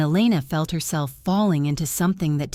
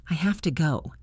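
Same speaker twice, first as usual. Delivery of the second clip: hollow voice. Acted. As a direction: say it drained of feeling. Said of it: "her voice hollow".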